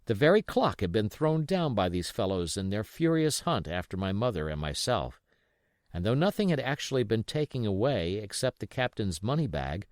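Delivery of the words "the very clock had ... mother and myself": usual speaking voice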